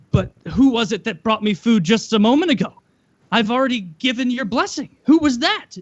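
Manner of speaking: acting out a baffled father who demands an answer; puzzled old father. Blind father asking his son who brought the food, baffled. Retold Isaac puzzled at being fooled.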